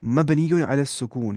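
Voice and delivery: each syllable spelled out slowly; slow, deliberate teacher's demo; slow careful term. Shown as a demonstration. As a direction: set the term down slowly for students. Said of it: "इनको हम बोलेंगे".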